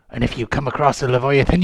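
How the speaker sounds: lightly voiced old sea dog; a hint of a grizzled pirate. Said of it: "my pirate voice".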